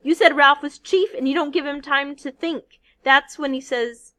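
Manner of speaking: loud, high, furious outburst; lost his temper. Acted. Piggy scolding the giggling boys, furiously loud. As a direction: blast them with his rage.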